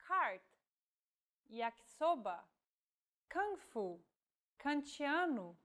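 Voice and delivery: Cart, yakisoba, kung fu, kantiano each with a hard English K; crisp K in Cart, yakisoba, kung fu, kantiano; K word demos. Shown as a demonstration. Teacher lists K words for learners, clear pronunciation. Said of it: "K is read just like in English".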